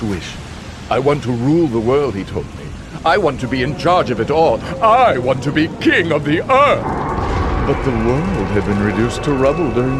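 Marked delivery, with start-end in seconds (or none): 3.0-6.8 building demand, climbing higher; hungry for power, swelling to the end; power-hungry declaration. Acted. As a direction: build to a grand, raised-voice climax. Winner's power-hungry wish, acted in quote.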